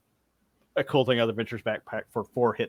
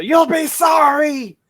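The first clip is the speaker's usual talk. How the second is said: high, drawn-out goblin yell; goblin taunt; 10 dB louder, slower than usual. Acted. Fleeing goblins shout back at the party, high taunting screech. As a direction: screech a loud, high parting threat. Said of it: "they hear when they say".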